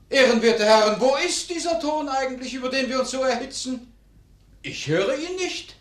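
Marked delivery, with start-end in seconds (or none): 0.1-3.0 oratorical. Acted. Member addressing parliament.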